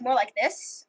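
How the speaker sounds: light attempt at a British accent; a hint of British, casually demonstrated. Shown as a demonstration. Storyteller showing listeners how British accents go, light British accent. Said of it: "British accents would be".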